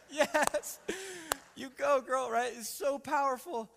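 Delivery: loud, high whoop of praise; cheering excitement. Retold or imitated. Cheering daughter's sermon line.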